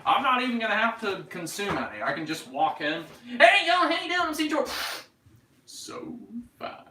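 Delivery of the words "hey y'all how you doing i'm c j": high, loud, goofy hello to the crowd; goofy stoned greeting. Pretend. Stoner at a smoky show greeting the crowd, high and goofy. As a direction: play a dazed stoner waving hi, pitched way up.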